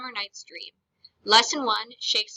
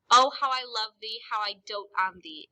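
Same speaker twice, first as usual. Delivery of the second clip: adoring. Shown as a demonstration. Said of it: "is adoring".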